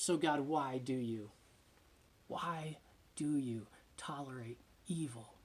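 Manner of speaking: soft, unvoiced whispered question; hushed plea. Prophet questioning God, a hushed whisper. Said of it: "the prophet cries out to God".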